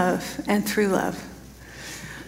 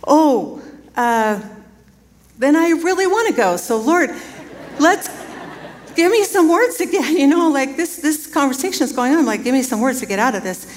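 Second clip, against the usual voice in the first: urgent plea; 4 semitones higher than usual. Retold or imitated. Pleading with the Lord mid-massage.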